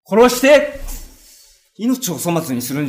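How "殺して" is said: high, loud begging cry; desperate plea. Acted. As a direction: beg to be killed, voice shooting up. Begging thief to kill him.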